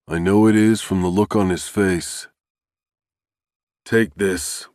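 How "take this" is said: remorseful. A narrator's reading. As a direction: say it full of regret. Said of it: "Carter's tone is full of remorse".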